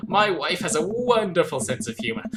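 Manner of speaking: put-on searching for accent. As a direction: play a genial host with a wobbly accent. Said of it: "find my accent".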